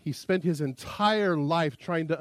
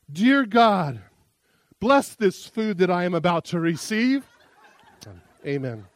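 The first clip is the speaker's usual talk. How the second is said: mock solemn bear grace; 2 semitones higher, 4 dB louder than usual. Bear prays before eating preacher.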